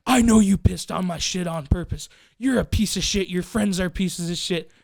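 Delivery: mock furious rant. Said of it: "he freaks the fuck out on me".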